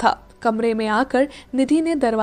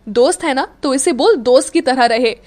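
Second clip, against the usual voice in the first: glaring; 2 semitones higher, 5 dB louder than usual. Acted. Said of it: "अक्षत ने मीरा को लगभग घूरते हुए कहा".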